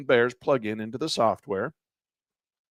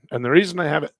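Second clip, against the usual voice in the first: hoarse, voice giving out; strained, losing her voice; faster than usual. Real, not acted. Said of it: "I'm losing my voice".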